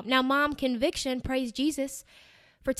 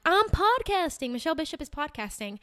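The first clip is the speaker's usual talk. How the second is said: awkward voice; 4 semitones higher than usual. Acted. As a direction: put on a goofy awkward voice. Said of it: "Why am I doing all these awkward voices?".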